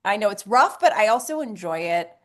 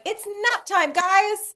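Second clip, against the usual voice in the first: sing-song announcer; 10 semitones higher, much slower than usual. Retold or imitated. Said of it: "should be like".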